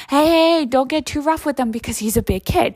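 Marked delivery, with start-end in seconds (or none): 0.1-1.7 mock warning. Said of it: "he's always been".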